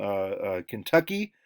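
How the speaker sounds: ordinary talk, nothing marked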